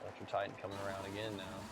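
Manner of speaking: lively sim racing play-by-play; race commentary. Acted. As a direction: call the lap times like a race caster.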